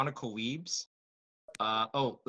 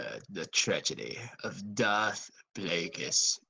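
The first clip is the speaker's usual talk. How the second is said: Palpatine impression; 4 semitones lower than usual. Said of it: "have you ever heard of the tr".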